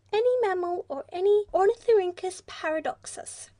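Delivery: the creature smoothing things over graciously; affable platypus. A narrator's reading. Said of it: "said affably".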